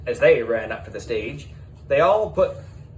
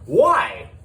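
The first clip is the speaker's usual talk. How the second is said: shocked high shout; 12 semitones higher, 8 dB louder than usual. A narrator's reading. Class asks in disbelief.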